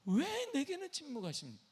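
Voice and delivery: very high pleading question; high-pitched lament falling away at the end; David's anguished cry. Acted. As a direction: plead upward to a silent God. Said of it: "다윗은 이 말을 하고 있는 거예요".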